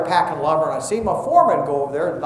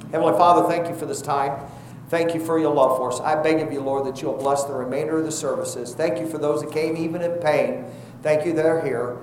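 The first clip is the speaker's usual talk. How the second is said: softer, hushed prayer to the Lord; closing prayer; 4 dB quieter than usual. Acted. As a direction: pray quietly, humbly to the Father. Closing prayer after the sermon.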